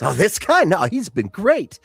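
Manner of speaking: smirk while vouching for him; smirking Darius. Acted. Darius teasing Elion in front of his father, smirking. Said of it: "he goes".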